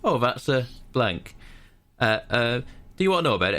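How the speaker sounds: game character's spiel. Retold or imitated. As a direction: mimic a scripted, over-polite routine. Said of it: "And then he goes".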